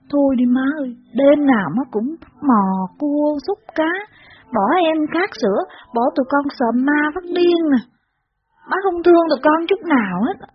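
tearful reproach. A narrator's reading. Child sobbing and reproaching mother for leaving them, tearful. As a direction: sob out the blame at mother. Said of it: "còn phụng phịu, đay nghiến má".

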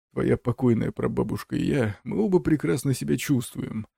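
lightly voiced creaky old man; a hint of a creaking ancestor. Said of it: "проскрипел старик".

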